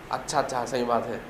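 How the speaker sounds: soft, low, acquiescent reply; meek agreement. Retold or imitated. A pupil gives in to the teacher's reasoning, meek agreement. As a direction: back down quietly, imitating a convinced pupil. Acts out pupil meekly accepting answer.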